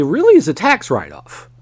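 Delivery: real accidental crack in the voice. Real, not acted. Podcaster explaining a wrestling company's finances, voice cracking. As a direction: voice jumps up and breaks mid-phrase. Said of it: "my voice just cracked there".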